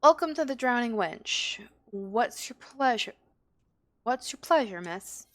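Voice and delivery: welcoming tavern-keeper, lightly acted; lightly voiced barkeep. Barkeep welcoming a customer to the Drowning Wench, lightly in character. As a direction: greet a customer as the tavern host. Reads barkeeper's dialogue in game.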